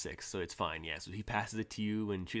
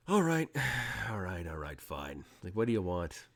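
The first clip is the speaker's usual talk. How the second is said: deadpan and serious. Acted. Exposed spy giving up to her interrogators, deadpan resignation. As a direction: give in wearily, mildly exasperated. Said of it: "totally deadpan and serious".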